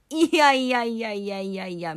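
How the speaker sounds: protesting no no. Acted. Protesting the father's remark.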